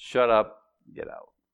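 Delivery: matter-of-fact, calm tone. Retelling what a man said, now repeating it very calmly. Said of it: "Very calmly, very matter of factly".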